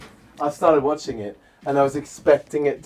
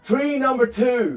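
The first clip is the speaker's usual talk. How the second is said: laughing shout; 10 semitones higher, slower than usual. Real, not acted. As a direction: blurt it out while laughing. Misreading the label, cracking up.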